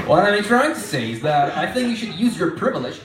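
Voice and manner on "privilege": privilege leaned on with extra weight; stress on privilege. Shown as a demonstration. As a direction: hit the word privilege. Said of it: "emphasis on privilege".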